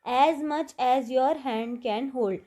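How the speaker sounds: very slow, word-by-word read of a definition; reading aloud. Shown as a demonstration. Teacher reading the meaning of handful to students, very slow. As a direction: read each word out slowly for the class. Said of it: "handful का मतलब क्या होता है?".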